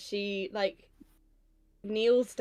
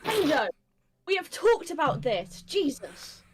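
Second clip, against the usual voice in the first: higher-pitched, exasperated reprimand; exasperated scolding; 5 semitones higher, slower than usual. Acted. Scolding the brother for threatening, exasperated. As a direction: tell him off, fed up.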